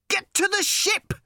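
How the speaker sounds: high, loud panicked shout. Acted. Ford yelling to Arthur, loud panicked shout. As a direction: yell it as you bolt. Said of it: "shouted Ford".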